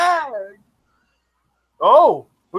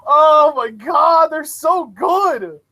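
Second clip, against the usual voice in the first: excited shout; 4 semitones higher than usual. Real, not acted. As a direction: shout it like the crowd's going wild. Cheering the wrestlers' entrance.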